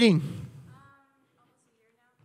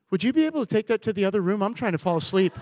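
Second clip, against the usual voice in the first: wife's quiet annoyed request; 9 dB quieter, faster than usual. Retold or imitated. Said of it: "she's like".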